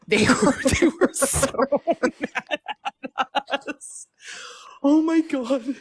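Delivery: high laughing disbelief; laughing at how mad they got. Real, not acted. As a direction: giggle through the words.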